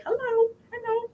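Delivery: imitating a sweet little parakeet. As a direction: chirp it like a small pet bird. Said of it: "and a little voice say".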